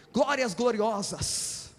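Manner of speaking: mock pentecostal plural praise. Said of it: "eles gostam de fazer tudo no plural".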